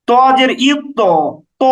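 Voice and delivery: "ইউক্ত" ending on a heavy, rounded to; qalqalah tilted upward. Shown as a demonstration. Teacher takes the ta upward, rounded heavy qalqalah. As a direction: round the bounced t of "ইউক্ত" toward o. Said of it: "উচ্চারণটাকে উপরের দিকে নিয়ে যাচ্ছি".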